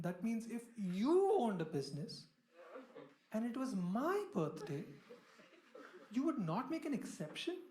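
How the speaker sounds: slow, emphatic mock interrogation; pointed cross-examination. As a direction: draw out each condition like an accusing partner. Wife cross-examines him in quarrel.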